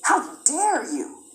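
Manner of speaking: mock a white racist sneering at uppity blacks; hostile white official. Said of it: "I'm like".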